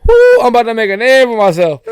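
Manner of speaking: high, loud whoop in a mock Cajun accent; Gambit's fake Cajun accent. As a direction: belt it out in a hammed-up Cajun accent. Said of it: "puts on a dumb fake accent".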